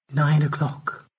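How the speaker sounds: softly mouthed, almost silent; mouthed, barely voiced. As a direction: shape the words with hardly any voice. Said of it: "She turned to Stanley and mouthed".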